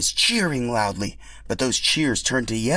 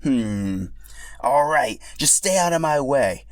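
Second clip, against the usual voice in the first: higher, mock gruff rival; gruff acceptance; 4 semitones higher than usual. Boshi accepting Yoshi's rematch, mock gruff. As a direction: agree but keep some edge.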